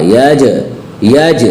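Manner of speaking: यज with the J echoed back; bouncing Jeem. Shown as a demonstration. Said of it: "जीम की आवाज़ टक्कर खा के दोबारा". (यज में जीम टक्कर खाकर)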